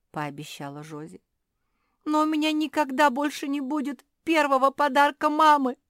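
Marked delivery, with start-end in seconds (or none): 2.0-5.8 high, loud wailing sob; sobbing. Acted. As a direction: sob it out heartbroken. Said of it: "рыдала Куки". (рыдая)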